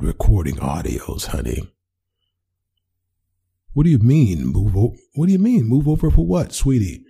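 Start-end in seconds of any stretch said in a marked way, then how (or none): 3.7-7.0 high, strained nervous protest; flustered panic. Acted. Boyfriend caught by girlfriend hiding his laptop, panicky high protest. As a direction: squeak out denials, caught red-handed.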